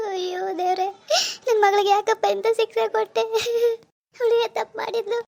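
tearful grieving lament; crying lament. Acted. Mother grieving that her young daughter goes to jail, crying lament. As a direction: weep over her child's fate.

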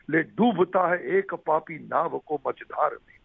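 slow, measured recital of epic Hindi verse; poem recitation. Shown as a demonstration. Actor recites memorised epic lines to the interviewer on request, declaimed verse. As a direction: recite it line by line with deliberate pauses. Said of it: "आपको मैं कुछ पंक्तियाँ सुनाता हूँ".

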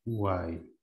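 "guay" suelto, como última sílaba alargada; sílaba aislada. Shown as a demonstration. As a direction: cierra con "guay" como sílaba aparte. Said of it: "Lo voy a separar así". ("guay" aislado, con la voz bajando)

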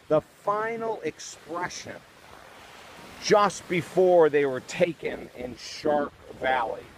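hammed-up dread over the remains; mock horror-movie hush. Reporter unveils the shark victim's remains in a mock spooky hush.

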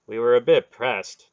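apologetic. A narrator's reading. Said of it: "Dernick apologized".

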